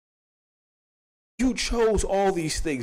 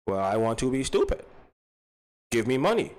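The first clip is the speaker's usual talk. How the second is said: lightly voiced foreign child, lower than usual; foreign little kid; 3 semitones lower than usual. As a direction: play a simple-minded foreign kid. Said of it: "but as a foreign little kid".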